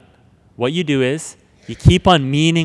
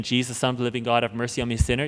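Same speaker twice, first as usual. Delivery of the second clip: quiet prayer; 3 semitones lower, 6 dB quieter, much faster than usual. Shown as a demonstration. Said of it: "Instead of saying".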